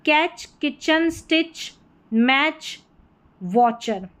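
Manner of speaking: कैच, किचन, स्टिच, मैच, वॉचर with a ch sound, no separate t; TCH as ch. Shown as a demonstration. Teacher modelling TCH words, ch demonstration. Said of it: "टीसीएच को च करके pronounce करेंगे".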